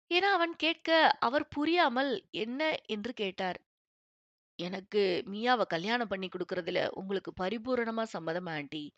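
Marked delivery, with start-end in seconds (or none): 4.6-8.8 each word pressed and measured; deliberate, weighted words. A narrator's reading. Young man asking the mother for full consent, each word weighted. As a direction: lay weight on every word, unhurried. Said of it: "வார்த்தைகளில் அழுத்தத்தை கூட்டி ஒவ்வொரு வார்த்தையையும் நிதானமாக".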